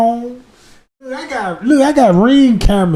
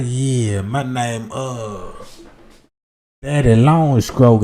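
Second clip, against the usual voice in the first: low, hammed-up smooth-talker voice; mock smooth stranger; 8 semitones lower, 4 dB quieter, slower than usual. Stranger in her inbox, low and hammed-up. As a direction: drop it low and slick like a player. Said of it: "a nigga all in the inbox talking about".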